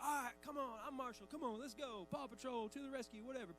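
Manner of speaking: a dad going through the motions of the game; half-hearted play-along. Retold or imitated. Dad half-plays rescuing pup.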